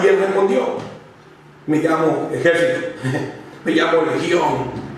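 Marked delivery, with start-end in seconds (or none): 1.7-4.9 demon voice. Acted. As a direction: let the demon growl its name from low down. Preacher voices the demon answering.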